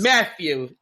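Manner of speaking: lightly voiced Italian grandma; a hint of grandma calling her grandson; grandmother's voice. Podcaster doing his Italian grandma on request, light grandmother impression. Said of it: "do your grandmother's voice".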